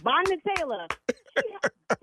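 high, loud disbelieving cries of her name; shocked shriek. Real, not acted. Realizes prank, shrieks friend's name.

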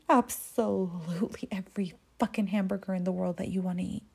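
put-on hushed promise to the kid; whisper. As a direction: breathe it like a secret. She assures the burger-obsessed boy.

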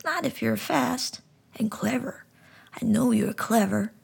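talking frog gently explaining; high frog voice. Acted. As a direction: speak like a wise little frog. Frog encourages boy.

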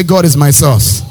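loud, slow declaration; shouted with conviction. Shown as a demonstration. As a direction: proclaim it like you mean it. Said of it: "Say it like you mean".

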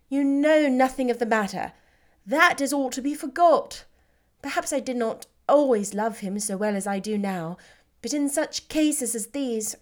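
Lizzie brushing off the past; Elizabeth, brisk. Acted. Elizabeth dismissing past dislike.

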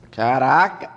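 loud startled exclaim with laugh; surprised laughing outburst. Real, not acted. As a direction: burst out, then laugh. Realizes own slowness, bursts out. (surpreso, rindo alto)

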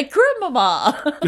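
slow drawn-out call through laughter; laughing call. Retold or imitated. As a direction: stretch it out while laughing.

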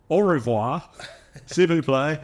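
mock French accent, laughing between phrases. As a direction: put on French sounds, drawing it out. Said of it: "French speaking English would be like".

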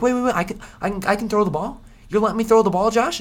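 very high, loud, squeaky surprise; can't believe his luck; disbelieving quarterback. Pretend. Quarterback amazed his coach lets him throw, squeaking loud. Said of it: "Cade McNamara is gonna be like".

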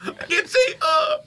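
squeaky, panicky character voice; high silly voice. Pretend. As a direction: play a blind masked goon. Voicing masked character.

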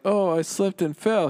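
a hint of playacted coy excuse; mock innocent bride. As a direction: feign an innocent little accident.

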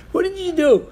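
high, incredulous what did you do, stress on "do"; shocked question. Retold or imitated. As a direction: ask it in disbelief, leaning on "do". Students shocked at rabbi crying.

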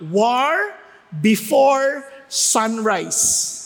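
before sunrise drawn out very slowly; preacher drills the phrase for the congregation to remember; slow emphatic. Shown as a demonstration. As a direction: spell out "before sunrise" like a motto. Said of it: "tandaan niyo".

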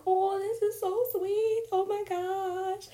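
high, slow gushing at the sweetness; gushing, touched. Retold or imitated. Gushing to herself while watching Zach on the show. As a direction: melt over how sweet it is.

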